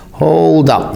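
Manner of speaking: sudden urgent interruption. A narrator's reading. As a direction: stop everything with a sudden call. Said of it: "Norva said suddenly".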